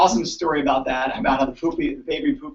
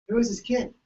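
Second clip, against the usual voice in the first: higher annoyed question; irritated question; 8 semitones higher than usual. Retold or imitated. Chiropractor annoyed at the screaming child, higher. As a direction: ask sharply, pitched up. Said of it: "I'm like".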